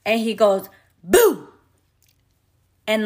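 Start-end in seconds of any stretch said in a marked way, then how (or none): 1.0-1.5 sudden louder, higher "Boo!"; jump-scare someone with a quick boo; kid's playful boo. Retold or imitated. Six-year-old sneaks up behind her to scare her, playful boo. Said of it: "goes behind her back and scares her".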